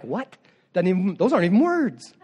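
scoffing skeptic with a laugh in it; mocking bystander. Preacher voicing mockers, laughing and scoffing. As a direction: laugh off the strange tongues. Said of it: "They're like".

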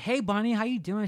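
high, loud hello in a retold story; acted friendly greeting. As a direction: call out a greeting as the store owner. Store owner greets the aunt.

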